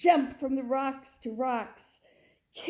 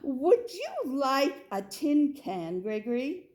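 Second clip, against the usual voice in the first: mother goat; 5 semitones higher, 4 dB louder than usual. Acted. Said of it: "asked his mother goat".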